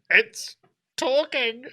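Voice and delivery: high-pitched wide-eyed awe; loony wonderment; astonished old man. Acted. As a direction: pitch it up in amazement. Old man marvels at speaker.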